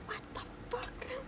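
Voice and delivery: high, soft whisper under the breath.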